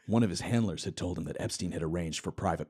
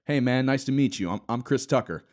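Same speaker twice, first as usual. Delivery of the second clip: louder, higher friendly greeting; Chris Tucker voice; 5 semitones higher, 5 dB louder than usual. Acted. Chris Tucker greeting Hawking, louder and higher. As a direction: greet him like an eager buddy. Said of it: "The other man offered Hawking a closed fist".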